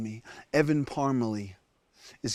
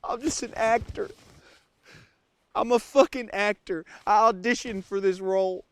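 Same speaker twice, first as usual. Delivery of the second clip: fake Southern accent. Stranded survival-show host confessing to camera, put-on Southern accent. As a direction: play the rugged Southern survivalist. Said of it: "I don't even have an accent".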